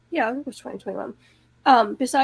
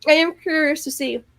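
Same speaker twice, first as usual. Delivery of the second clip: talking through chocolate; mouth full; 2 semitones lower than usual. Real, not acted. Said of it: "I have chocolate almond in my mouth".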